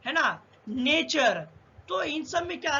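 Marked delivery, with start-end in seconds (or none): 0.7-1.4 नेचर slowly with T sounded as CH; slow नेचर, second syllable starting CH. Shown as a demonstration. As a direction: draw out नेचर, showing the CH. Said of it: "चा हो रहा है".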